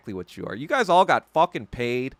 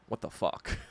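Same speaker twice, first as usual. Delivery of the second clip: whispered what the fuck; 4 semitones lower, 9 dB quieter than usual. Retold or imitated. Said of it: "but even they're like".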